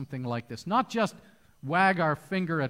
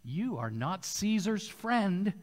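crowd crying out; slower than usual. Retold or imitated. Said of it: "the Jews cried out".

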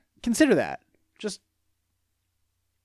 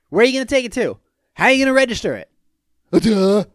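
loud, raised comic indignation; mocking exasperation; 4 semitones higher, 6 dB louder, faster than usual. Man scolds absent woman about registering the car, mockingly exasperated. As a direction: fire questions as if it's obvious.

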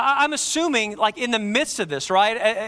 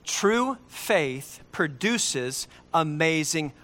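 drawn out, slow and quiet; slowly, a hush before the word works; 5 semitones lower, 3 dB quieter, much slower than usual. Shown as a demonstration. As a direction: let every word of "True faith produces amazing works" hang. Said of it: "So listen very carefully".

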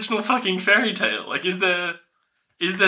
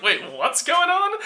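confused king; 10 semitones higher than usual. Retold or imitated. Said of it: "He's like".

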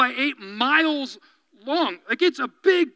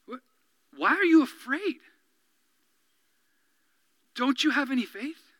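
challenging rebuke; 5 dB quieter than usual. Retold or imitated. Jesus confronting his frightened disciples with challenge. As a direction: press them with the question. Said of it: "the heat of challenge".

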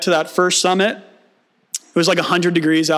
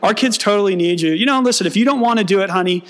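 mock eager agreement; 2 semitones higher, faster than usual. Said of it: "I'm like".

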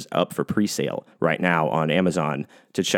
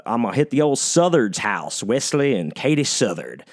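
put-on Southern accent; 2 semitones higher than usual. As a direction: lightly put on a Southern twang. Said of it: "I don't know why I say like that".

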